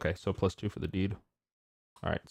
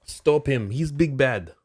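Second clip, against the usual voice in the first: raised, higher in-character shout; yelling out; 5 semitones higher, 9 dB louder, slower than usual. Acted. Player shouting Hans's warning as the culprit flees, yelled out. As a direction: call out loudly to stop a fugitive. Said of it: "I would've definitely yelled out".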